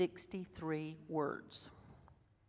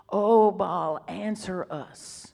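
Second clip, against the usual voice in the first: louder mock cry, then trailing off; mock wailing prayer; 6 dB louder, much slower than usual. Preacher mocks the repetitive prayers with a louder wailing cry. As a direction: call out to Baal, then let it sag. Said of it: "Now watch the repetition".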